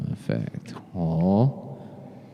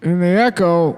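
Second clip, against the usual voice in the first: vintage echo chamber; 8 semitones higher than usual. Acted. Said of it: "too much echo".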